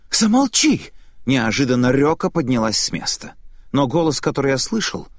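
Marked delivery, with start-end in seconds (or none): 0.1-0.9 angry command. Acted. Ryoka silences the old woman.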